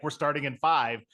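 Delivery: quick Australian countdown; Australian accent. Retold or imitated. Co-host cueing the start, Australian accent. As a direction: count them in with an Australian lilt. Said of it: "I was doing an Australian accent".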